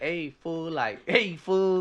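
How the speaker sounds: mock L.A. homeboy greeting; chest-voice imitation. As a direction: imitate a friend talking from the chest. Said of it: "He was doing the whole chest thing".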